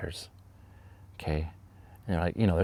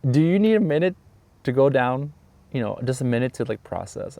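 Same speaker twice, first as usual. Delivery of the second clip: high, louder sympathetic offer with amusement; laughing colleague; 6 semitones higher, 4 dB louder than usual. Retold or imitated. Amused colleague offers teacher a break, high voice. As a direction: offer kindly while holding back a laugh. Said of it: "She's like".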